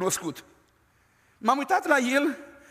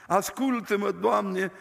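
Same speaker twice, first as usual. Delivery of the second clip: joking prayer; 2 semitones lower, slower than usual. Retold or imitated. Preacher retelling the joke prayer, light and playful. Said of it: "era o glumă frumoasă".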